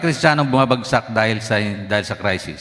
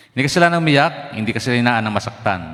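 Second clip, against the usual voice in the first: emphatic preaching; 5 dB louder than usual. Real, not acted. Preacher insists crying is no sin.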